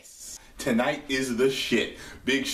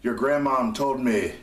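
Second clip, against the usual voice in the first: bad Sheamus impersonation; 2 semitones higher than usual. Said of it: "probably a bad, uh, Sheamus impersonation".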